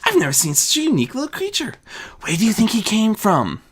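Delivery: bubbling over with delight; gushing. Acted. Azura gushes over creature.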